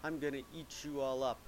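troll voice. Acted. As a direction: stretch out the opening threat. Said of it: "The same troll came up and said".

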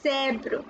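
"zèbre" with an open eh, ZEH-bruh; open accent grave. Shown as a demonstration. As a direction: expand the mouth on the è of "zèbre". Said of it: "your mouth expand".

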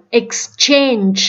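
"exchange" drawn out with a clear CH; CH sound. Shown as a demonstration. Teacher modelling exchange for learners, CH sound. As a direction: say "exchange" slowly, CH in the middle. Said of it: "âm chờ".

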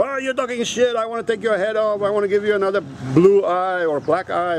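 mild mock threat, without raising the volume; mock angry commenter. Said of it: "people get really fucking angry".

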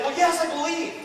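high, loud insistence; pained father. Acted. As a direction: blurt it out as a desperate father. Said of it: "Because of all this pain, he's like".

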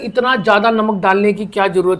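between bites of bread; talking while eating. Real, not acted. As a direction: mouth partly full. Seen 0: holds naan piece, brings it to mouth while speaking.

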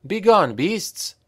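high, slow commanding cry at the rats. A narrator's reading. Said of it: "cried Karel".

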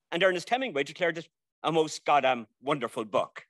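a weak put-on American accent on a critic's words; lightly borrow a Yank twang for Hemingway; bad American accent. Speaker mimicking Hemingway to the audience in a bad American accent. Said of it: "It's my bad American accent".

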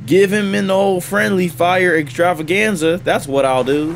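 lightly Austrian-accented delivery; accidental Austrian accent. Real, not acted. Viewer planning friendly fire, a hint of Austrian accent. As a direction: slip into a slight Austrian accent. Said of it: "Why did I say it in, like, an Austrian accent?".

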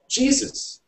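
high-pitched exclamation of disbelief; shocked outburst. A narrator's reading. Outburst at news of the money.

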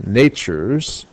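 "nature's" with a strong NA and weak ture's; dum-da beat on "nature's"; stress on first syllable. Shown as a demonstration. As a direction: hit the start of "nature's". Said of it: "nat is where the stress is".

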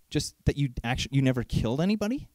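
low, quick disbelieving repeat; incredulous echo. Real, not acted. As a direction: throw their claim back, unimpressed. Mocking the claim back.

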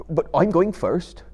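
a hint of a rustic hobbit, grudging; Sam. A narrator's reading. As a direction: Sam grumbling at the climb. Sam insists on going first.

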